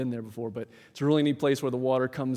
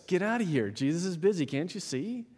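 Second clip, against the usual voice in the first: pitched up, dismissive brush-off; disciples shooing away; 6 semitones higher than usual. Retold or imitated. Preacher voicing disciples turning children away, pitched-up dismissive brush-off. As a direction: shoo them off like busy gatekeepers. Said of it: "The disciples".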